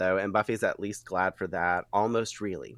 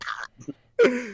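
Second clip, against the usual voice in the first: high playful quip; 4 dB louder than usual. Retold or imitated. Buffy's quip while finishing vampire.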